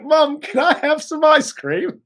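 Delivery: put-on high, whiny kid asking mom for a treat; little kid voice. Riley voiced as a small kid begging mom for ice cream, high and whiny.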